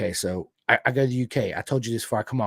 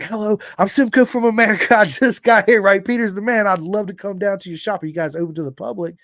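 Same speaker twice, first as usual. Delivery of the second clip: high, loud, eager American country twang; hammed-up Southern American caller; American country accent; 7 semitones higher, 7 dB louder than usual. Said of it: "'cause of my country accent".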